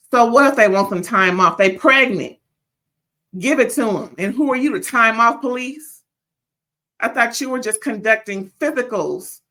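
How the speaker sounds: loud, indignant challenge; heated rant. Real, not acted. Reviewer challenging Doctor Simone over time off, indignant. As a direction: push the volume, demanding an answer.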